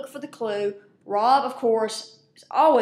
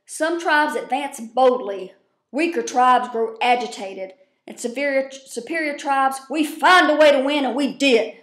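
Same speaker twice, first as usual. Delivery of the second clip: slow, lofty proclamation, swelling louder on the win; pompous speech quote; 2 semitones higher, 5 dB louder than usual. Retold or imitated. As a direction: ham up a self-important tribal speech. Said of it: "and I'm gonna quote".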